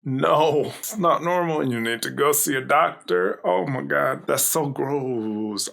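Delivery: grossed out. Real, not acted. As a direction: recoil in real disgust, drawing out the last words. Reacting to gross transformation scene.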